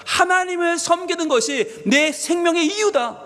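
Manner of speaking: high, slow, firm proclamation; measured, emphatic voicing of Jesus's answer; resolute declaration. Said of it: "우리 주님 단호하게 말씀하십니다".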